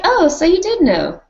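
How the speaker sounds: high mock-accusing Sansa voice; quoting Sansa. High accusing voice, Sansa catching Littlefinger out. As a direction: pitch it way up, accusing. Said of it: "And she's like".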